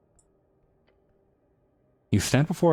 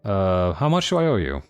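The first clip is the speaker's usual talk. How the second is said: higher, pushy nerdy merchant; smug bird shopkeeper, pitched up; 8 semitones higher than usual. Acted. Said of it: "a very nerdy voice".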